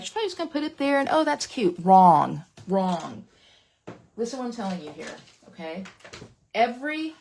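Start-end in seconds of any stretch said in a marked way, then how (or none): 0.0-1.8 fast. Retold or imitated. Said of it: "And I know you're like". 1.8-2.4 loud. Real, not acted. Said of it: "loud correction to viewers".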